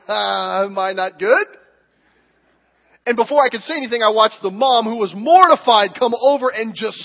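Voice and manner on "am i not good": put-on little boy's bewildered question. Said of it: "the two-year-old turns around like".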